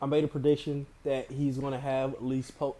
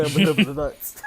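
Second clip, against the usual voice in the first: bad acting; 7 dB louder, much faster than usual. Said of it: "somebody do the laugh and say".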